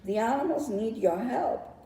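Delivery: high, urgent bird's call; a little bird crying out with bad news; cried out by the bird. A narrator's reading. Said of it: "cried the bird".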